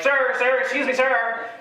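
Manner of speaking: high, politely urgent calling; polite approaching parents. Retold or imitated. Parents at the park chasing the dad, calling politely high. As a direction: call after him politely. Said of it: "they're like".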